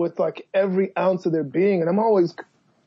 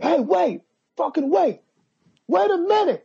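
put-on drunken posh sneer; 11 semitones higher than usual. Drunk guy dragged out protesting.

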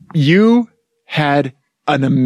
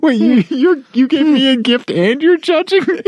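surprised; 8 semitones higher than usual. Real, not acted. Mock outrage at the gift.

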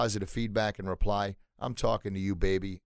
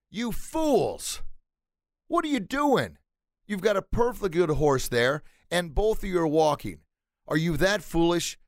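higher-pitched, indignant mock yell; townsperson yelling out; 6 semitones higher, 3 dB louder than usual. Townsperson scolding father and son for walking their horse, yelling out. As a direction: call out at them, high and scolding. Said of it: "one of the townspeople yells out".

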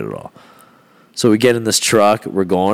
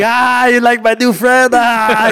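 high-pitched mock laughing voice; hammed-up gleeful cackling delivery; imitated laughing; 14 semitones higher, 4 dB louder, slower than usual. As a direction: crow it with put-on laughter. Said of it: "he's, he's laughing".

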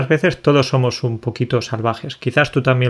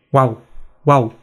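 dog bark. Shown as a demonstration. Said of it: "el perro español va a decir".

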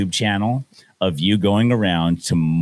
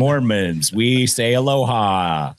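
smug Mormons; 5 semitones higher than usual. Retold or imitated. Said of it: "they're like".

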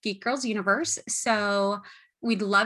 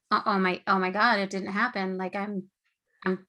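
hushed, halting mock disbelief; stunned relief. Retelling a hero's moment of being freed, in understated awe. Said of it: "relief and shock and awe".

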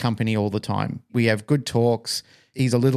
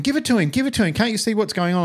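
high-pitched imitation of a pleading mother; flustered mum; 11 semitones higher, faster than usual. Mum urging son to give in to child, mock flustered pleading. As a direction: mimic an exasperated mum, voice pitched right up. Frantic mum voiced in family row.

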